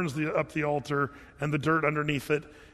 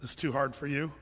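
calm prayer; 2 semitones lower than usual. Retold or imitated. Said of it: "very calmly says".

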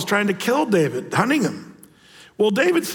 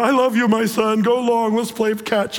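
gushing dad Saul; 4 semitones higher than usual. Acted. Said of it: "Saul's like".

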